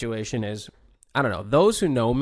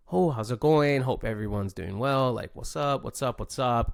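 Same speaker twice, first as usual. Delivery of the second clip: outgoing, friendly. Acted. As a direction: greet everyone like an outgoing dude. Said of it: "like, outgoing dude".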